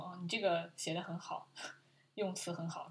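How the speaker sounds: retold praise in a soft whisper; awkward whisper. Boyfriend murmurs awkward praise to Julia, whispered. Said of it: "这个男的到后面也感觉很尴尬".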